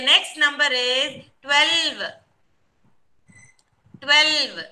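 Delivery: slow announcement with the number drawn out; slow dictation. Real, not acted. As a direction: give the next number unhurriedly. Teacher dictating the next number.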